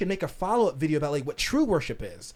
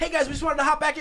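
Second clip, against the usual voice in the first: rushed, pitched-up rapid-fire talk, words tumbling out; 8 semitones higher than usual. Podcaster contrasting long-form conversation with quick clips, talking real fast. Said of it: "like talking real fast".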